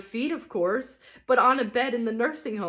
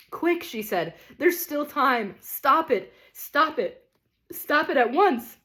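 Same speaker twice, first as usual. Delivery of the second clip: much higher, pressing, then sighing plea; urgent lady; 5 semitones higher than usual. Acted. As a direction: rescue him before it is too late.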